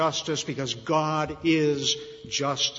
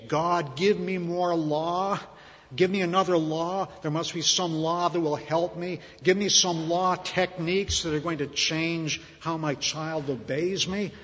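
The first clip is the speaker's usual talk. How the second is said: pleading for law; 2 semitones higher than usual. Retold or imitated. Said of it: "what does Paul say?".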